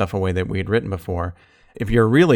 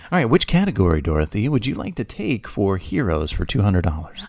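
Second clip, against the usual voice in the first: game show host. Pretend. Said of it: "It does feel like a game show".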